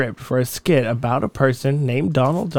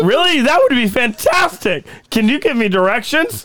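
duck voice; 6 semitones higher than usual. Acted. Donald reading skit lines.

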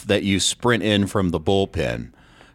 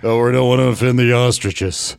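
mock prissy voice; 2 semitones higher, 4 dB louder than usual. Mocking oversensitive people.

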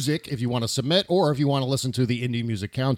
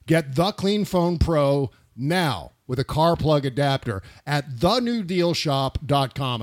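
ad read; slower than usual. Acted. Ad read call to action.

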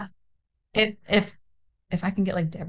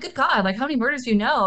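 higher-pitched mock disbelief; aghast, half-joking; retold incredulity; 5 semitones higher than usual. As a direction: exclaim it as an incredulous retold reaction. Retold shocked reaction to friend.

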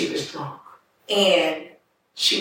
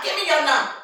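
put-on high-pitched drunken demand; drunk woman; 8 semitones higher, faster than usual. Drunk woman asking little baby's number, high drunken voice. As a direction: imitate her drunk talk, pitched well up. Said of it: "Drunk still. I'm not talking like she's talking".

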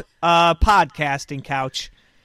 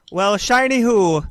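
put-on Irish accent; 2 semitones higher than usual. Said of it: "you have to do accents".

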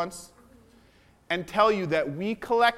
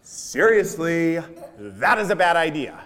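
slow, lightly voiced warning, stretching out seriously; a hint of an exasperated inner voice, drawn out; insistent inner voice; 3 semitones lower than usual. The inner voice warning him again, slow and insistent. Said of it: "Voice came in five minutes later".

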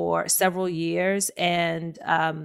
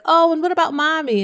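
mock hurt mom; 9 semitones higher, 6 dB louder than usual. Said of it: "And I was like".

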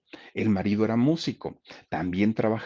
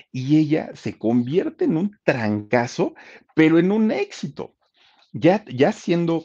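éxito triunfal; 7 semitones higher, 5 dB louder than usual. A narrator's reading. Narrator heralds her big success. (narración exaltada, lenta y fuerte)

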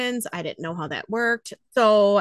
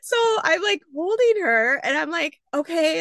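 high teary laughter; 8 semitones higher than usual. Real, not acted. Emotional retelling of birth.

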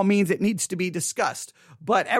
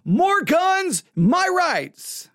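mock pro-gun voice; 7 semitones higher, much slower than usual. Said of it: "pro-life people who will be like".

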